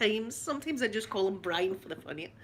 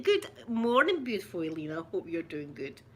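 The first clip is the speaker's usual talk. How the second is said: attempted American accent, dropping low; 4 semitones lower than usual. Shown as a demonstration. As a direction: greet a friend in a put-on American accent. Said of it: "Does it sound American?".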